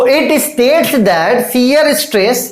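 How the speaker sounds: very slow, word by word dictation. Shown as a demonstration. Teacher dictating the law to students, very slow with long pauses. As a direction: spell it out for students to write down. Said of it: "dictating the law slowly for notes".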